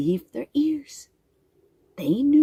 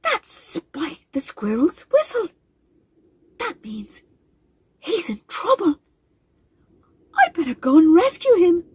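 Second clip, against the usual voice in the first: high, anxious robin voice, close to tears; a small brave bird who is frightened for her friend; worried little robin; 9 semitones higher than usual. Acted.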